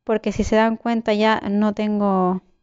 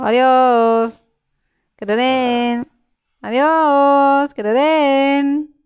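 taunting farewell; 2 semitones higher, much slower than usual. Real, not acted. Taunting enemies while leaving.

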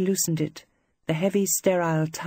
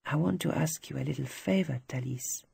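softer, hushed request; lower voice; 6 dB quieter than usual. Acted. Luc quietly asking Thalys for a favour, softer voice. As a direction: drop the voice for a private favour. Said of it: "He said in a lower voice".

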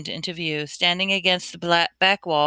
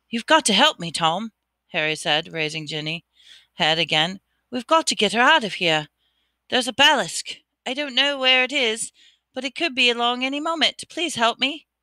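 higher, pressing, rushing plea; urgent plea; 5 semitones higher than usual. Acted. Harry begging Riddle to help save Ginny, urgent. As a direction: beg for help before the monster comes.

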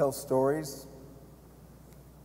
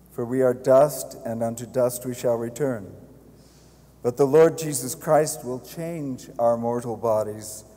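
solemn committal prayer, steady and louder; hushed graveside prayer; 4 dB louder than usual. Real, not acted. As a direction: intone it like a priest at the grave.

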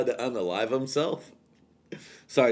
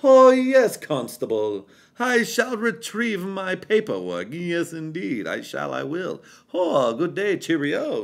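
mock upper-class British accent, much higher; plummy English toff voice, hammed up; exaggerated British accent addressing a constable; posh British; 7 semitones higher, 4 dB louder, slower than usual. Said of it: "proper, the highest class, the king's English".

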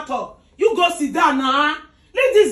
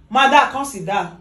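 mocking bossy tone; 2 semitones lower, slower than usual. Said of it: "See the way you just dey give order".

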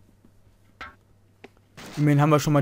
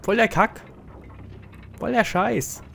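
exasperated; 6 semitones higher than usual. Real, not acted. Exasperated at game.

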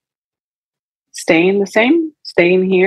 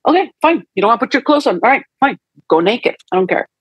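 higher, fed-up parent giving in; exasperated parent; 5 semitones higher, much faster than usual. Retold or imitated. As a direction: throw up your hands at the child. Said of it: "when you tell a child".

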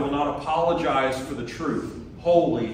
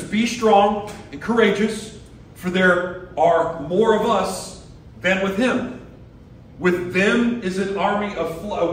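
rallying call; 4 semitones higher, 3 dB louder than usual. Retold or imitated. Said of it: "He says".

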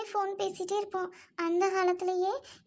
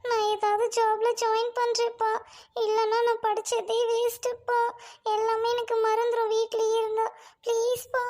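earnest, insistent plea; pleading; 4 dB louder than usual. Acted. Daughter begging her father to let her work, pleading. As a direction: beg with some force.

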